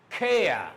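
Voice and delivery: care said "keh-uh"; silent R. Shown as a demonstration. Teacher giving silent-ending examples, silent R. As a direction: let care fall on an open vowel, no R. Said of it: "it's silent".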